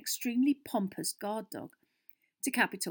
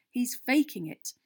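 slow, higher, angry accusation; furious; 5 semitones higher, 5 dB louder than usual. A narrator's reading. Harry accusing Malfoy of faking, furious. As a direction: accuse him, loud and drawn out. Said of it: "said Harry furiously".

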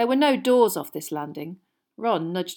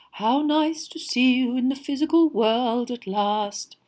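slow, dreamy, otherworldly voice; soft misty voice; 5 semitones higher than usual. A narrator's reading. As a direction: breathe it mysteriously. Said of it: "a soft, misty sort of voice".

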